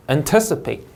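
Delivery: "Anticipate" stressed on TIC; second-syllable stress. Shown as a demonstration. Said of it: "이음절 강세고". ("Anticipate"의 둘째 음절에 강세)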